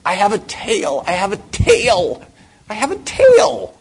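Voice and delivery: high, loud cry, rising to a shriek; desperate shout building. Retold or imitated. Patient finally shouting his secret to the psychiatrist, building shriek. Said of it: "finally gets out of him".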